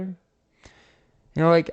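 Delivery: ordinary talk, nothing marked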